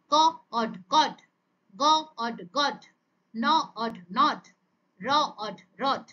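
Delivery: onset, rime, whole word, as in গ... অড... গড; phonics sound-out. Shown as a demonstration. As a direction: say ক, pause, অড, pause, then blended কড. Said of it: "তার sound গুলোকে আমরা কি করব". (থেমে থেমে ক, অড, তারপর একসাথে কড)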